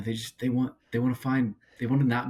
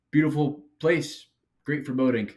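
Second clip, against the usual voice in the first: dad voice; 6 semitones higher, 4 dB louder than usual. Retold or imitated. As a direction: do a cheerful dad on his sailboat, lightly. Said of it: "That was such a dad line".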